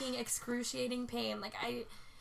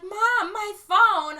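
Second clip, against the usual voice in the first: high, loud urgent call; retold cry to mom; 9 semitones higher, 13 dB louder, much slower than usual. Daughter to mom after crash, urgent call. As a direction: re-enact calling out in alarm.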